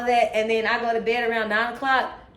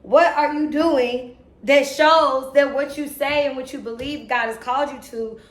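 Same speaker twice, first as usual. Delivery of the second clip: self-challenge; 3 semitones higher, 4 dB louder than usual. Real, not acted. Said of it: "I'm not yelling at y'all".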